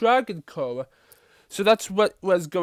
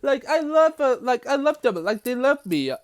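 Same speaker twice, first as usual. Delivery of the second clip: put-on much higher, gushing girly voice; high-pitched playful character voice; voicing Wildflower; 6 semitones higher than usual. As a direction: squeal it like an excited prankster girl. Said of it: "Wildflower said".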